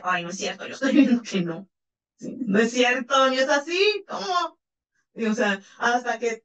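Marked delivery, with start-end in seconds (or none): 0.0-4.6 a lightly voiced protesting sixth sense; doubting inner voice. The listener's sixth sense protesting a lie, mildly incredulous. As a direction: play the gut feeling that refuses to believe, rising in disbelief. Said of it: "es el que nos dice".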